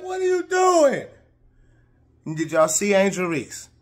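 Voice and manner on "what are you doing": shocked yell. Retold or imitated. Teammate on the bench reacting in shock, high yell. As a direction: shout it out in shock. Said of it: "one of her teammates is like".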